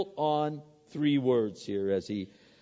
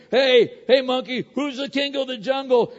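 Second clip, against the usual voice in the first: higher, louder lion bellowing at the monkey; roaring lion; 8 semitones higher, 7 dB louder than usual. Acted. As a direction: shout it like a bully lion. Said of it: "lets out a mighty roar".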